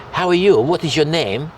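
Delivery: talking to foreigners. Shown as a demonstration. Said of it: "you adapt to the way".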